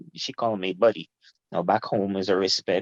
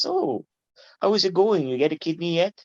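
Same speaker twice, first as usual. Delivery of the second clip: mock casual asking; 9 semitones higher than usual. Relatives asking mockingly about kidney.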